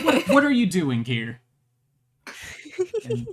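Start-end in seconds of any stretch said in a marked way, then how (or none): 0.0-1.4 surprised guard. Acted. GM voices guard catching intruder.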